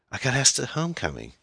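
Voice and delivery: put-on high, eager teenage girl; excited daughter. A narrator's reading. Daughter tells mother of homecoming invitation, excited.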